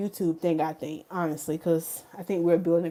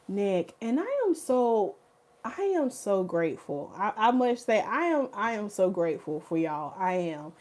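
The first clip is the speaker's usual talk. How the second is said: softly sincere thanks; mean every word, softly; humbled and tender; heartfelt gratitude; 5 dB quieter than usual. Real, not acted. Heartfelt thanks to her viewers.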